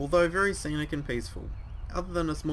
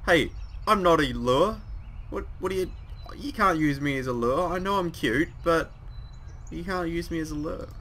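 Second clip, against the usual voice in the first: put-on higher, slowed, pouty girl; high cute protest; 4 semitones higher than usual. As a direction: protest cutely, you're the lure. Voicing Misha's protest.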